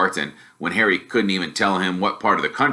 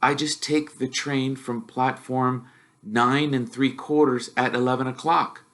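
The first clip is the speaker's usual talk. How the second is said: put-on hesitant boy reading; 4 semitones higher, 4 dB quieter than usual. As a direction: read the ticket word by word. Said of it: "he read".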